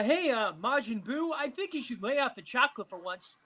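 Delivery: lightly voiced Goku, a bit quick; hint of a cheerful anime hero. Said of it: "I did a Goku impression".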